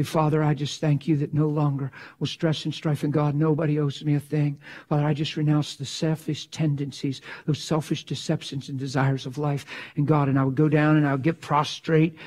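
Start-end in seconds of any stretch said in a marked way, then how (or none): 0.0-10.3 retold quiet prayer. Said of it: "And I'd say".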